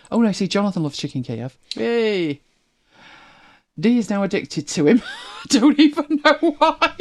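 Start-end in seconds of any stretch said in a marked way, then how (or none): 5.2-7.0 high-pitched, slowed by laughter; laughing. Real, not acted. Host amused at a viewer's new addiction, laughing. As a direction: laugh through the words.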